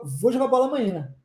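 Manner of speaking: quick "Vou jogar bola amanhã", the words run into one; casual run-together. Shown as a demonstration. Teacher shows how Brazilians really say it. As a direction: glide the words together like everyday talk. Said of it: "vira uma palavra só".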